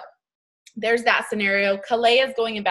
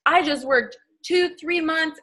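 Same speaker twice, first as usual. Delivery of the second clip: frustrated outburst; 7 semitones higher than usual. Retold or imitated. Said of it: "Vanessa's like".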